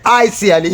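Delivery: "I sincerely" as "ai sialii", long final vowel; Rasta wordplay. Shown as a demonstration. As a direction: stretch the end of "I sincerely". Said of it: "You say".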